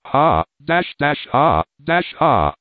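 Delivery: understated hammed-up villain's shout. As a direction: bluster like a stage brute, lightly. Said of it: "shouted the brutal Leonardo".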